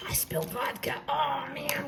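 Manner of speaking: hushed whisper over the spill; dismayed whisper. Real, not acted. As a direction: whisper it, caught off guard by the mess. Dismay after spilling vodka.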